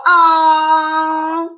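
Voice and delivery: high, fond mock aww; touched group aww, imitated. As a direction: coo it like the girls swooning. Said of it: "the girls go".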